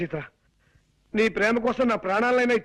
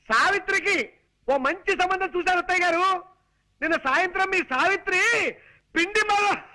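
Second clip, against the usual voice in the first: higher, breathless, animated announcement; worked-up telling; 4 semitones higher than usual. Acted. Son-in-law excitedly tells the mother-in-law about the match. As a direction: sell the good news with all you've got. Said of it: "కాళ్ళు చేతులు ఊపుతూ హైరాణ పడాలా".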